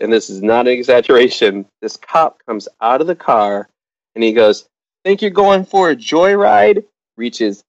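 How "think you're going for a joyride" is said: high, slow mock tough-cop taunt; angry state trooper. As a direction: play the aggressive trooper, pitched up and drawn out. Trooper confronts dad at roadside.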